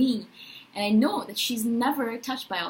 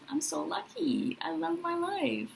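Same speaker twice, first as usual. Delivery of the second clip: soft, slow, higher whisper; inner whisper; 7 semitones higher, 6 dB quieter, slower than usual. Retold or imitated. Telling herself how lucky she is, in a slow, high, soft whisper. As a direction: whisper it to yourself like a secret joy.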